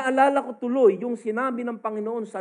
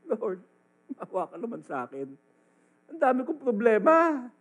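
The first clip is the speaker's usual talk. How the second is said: mock whining prayer; 5 semitones higher, 3 dB louder than usual.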